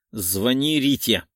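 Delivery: slow, firm order; commanding growl. Acted. Lena orders Artyom to call Rita, a commanding growl. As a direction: bark the command. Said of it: "рыкнула приказным тоном".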